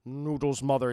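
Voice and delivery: low, spoiled whine to mother; a pampered kid asking for noodles; spoiled kid whining to his mother; whiny fat kid. Retold or imitated. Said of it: "he would always asking".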